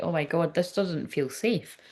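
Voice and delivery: soft, worried, slowed-down musing; anxious inner voice. Retold or imitated. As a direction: let the fear creep in quietly. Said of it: "the masculine might feel like".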